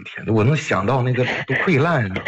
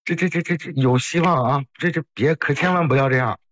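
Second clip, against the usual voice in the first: higher-pitched, stammering urgent plea; alarmed pleading; 4 semitones higher than usual. Real, not acted. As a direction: urgently talk someone out of it, tripping over words. 急忙劝阿姨别想不开. (慌忙劝阻，急得结巴)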